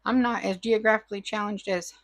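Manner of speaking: about to sneeze; holding back a sneeze. Real, not acted. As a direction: sneeze coming on. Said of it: "Oh, excuse me, I have to sneeze".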